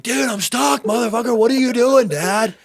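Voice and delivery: put-on high, loud voice of an angry stuck toddler; mock screaming baby. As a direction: squeal it like a trapped baby cursing his dad.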